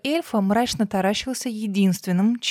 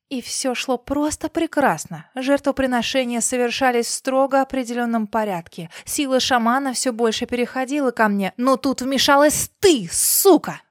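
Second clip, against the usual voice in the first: enraged boss roar; 4 semitones higher than usual. Acted. Villain's rant building.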